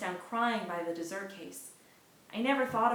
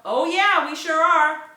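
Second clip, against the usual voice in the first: cheering call; 8 semitones higher, 13 dB louder, slower than usual. Acted. Crowd calls back loudly.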